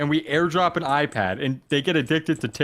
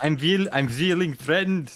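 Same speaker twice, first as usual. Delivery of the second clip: put-on, attempted Swedish accent. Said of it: "how do you do a Swedish accent?".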